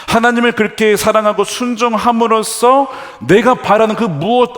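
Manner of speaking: high, loud sermon delivery; forceful preaching. Real, not acted. Preacher drives the point home. (높고 힘찬 목소리로 설교하듯)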